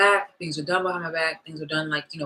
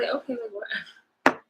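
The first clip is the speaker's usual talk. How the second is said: attitude; 5 semitones higher, 3 dB quieter, much slower than usual. Retold or imitated. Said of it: "with an attitude".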